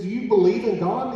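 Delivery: retold eager question, pushed up high. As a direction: ask it with rising pitch and urgency. Father realizes prayer may be answered.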